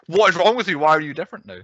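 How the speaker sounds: retold outburst, only lightly acted; mild mock outrage. Retelling a girlfriend suddenly snapping at her boyfriend, mild mock outrage. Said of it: "all of a sudden was like".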